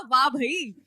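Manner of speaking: chuckling through the words; a light laugh as the RJ answers. Retold or imitated. Radio RJ answers the drunk caller, laughing. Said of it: "RJ हंसते हुए बोला".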